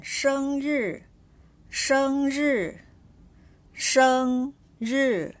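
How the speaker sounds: "生日" with 生 held high and level, 日 falling; first then fourth tone. Shown as a demonstration. Teacher reads test word seven, first then fourth tone. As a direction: hold "生" high, then drop "日". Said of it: "with the first tone".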